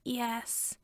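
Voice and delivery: tiny, barely-there yes; frightened boy's tiny squeak. A narrator's reading. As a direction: squeak it out almost silent. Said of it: "squeaked out a".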